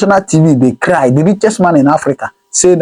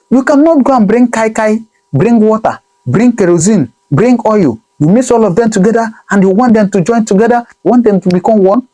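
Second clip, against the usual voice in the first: ordinary delivery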